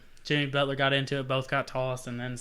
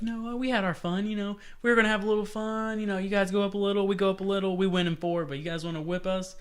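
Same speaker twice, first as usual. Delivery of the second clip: higher, smug taunting voice; mock team trash talk; imitating the Raptors; 5 semitones higher, faster than usual. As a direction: taunt the rival team, fast and cocky. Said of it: "They're like".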